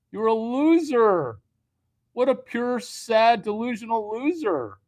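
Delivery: very high, loud scornful rant; ranting critic. Acted. Critic yelling at him, very high and loud. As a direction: spit out the insult up high.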